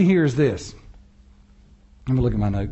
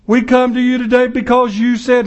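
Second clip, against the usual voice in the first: showy prayer; 4 semitones higher than usual. Acted. Mimics arm-twisting showy prayer.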